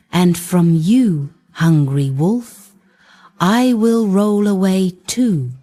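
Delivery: a cheeky bun teasing the wolf with his rhyme; Kolobok reciting his poem. Acted.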